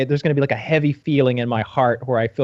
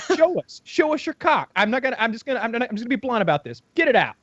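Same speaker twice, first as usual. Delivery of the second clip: much higher, blunt teasing demand; mock host demand; 7 semitones higher, faster than usual. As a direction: order him bluntly, mocking. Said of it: "he's like".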